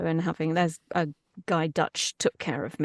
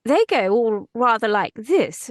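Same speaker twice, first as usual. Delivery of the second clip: exaggerated posh English, pitched up; posh English accent; 3 semitones higher, 5 dB louder than usual. Shown as a demonstration. Showing how English people sound being posh, posh English accent. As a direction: put on very posh English airs. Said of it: "an English person is being posh".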